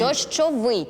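ДОЩОВИЙ with the last syllable stressed; stress on the ending. Shown as a demonstration. Host confirms the contestant's answer, Дощовий stressed on its last syllable. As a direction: stress the final -ВИЙ in Дощовий. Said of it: "наголос падає на закінчення".

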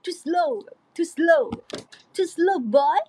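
put-on "To slow" in short punchy bursts, "boy" lifted; punchy pronunciation. Shown as a demonstration. Singer drills the lyric for listeners, punchy "To slow boy". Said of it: "มันๆ เราต้องแบบออกเสียงว่า".

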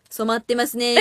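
からかう口調. Retold or imitated. 地元の友達のからかいを再現.

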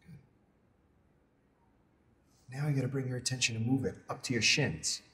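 soft, measured meditation voice with long pauses; guided meditation. Acted. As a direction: guide them gently through a body scan, unhurried. Leads a body scan meditation.

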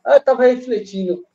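distant, echoey phone audio; phone held away. Real, not acted. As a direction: speak far from the mic, echoing. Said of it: "você tá sem fone? ... senão dá muito eco".

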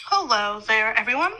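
talking around a lollipop in mouth; words rounded by candy in the mouth; sucking a lollipop. Real, not acted. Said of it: "And loud chewing, sorry. Lollipop".

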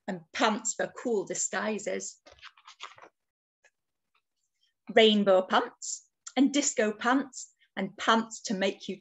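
put-on lively, lilting read-aloud for children; picture-book narration. A narrator's reading. Author reads picture book to children, lively storytelling. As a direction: tell it as a bedtime-book adventure.

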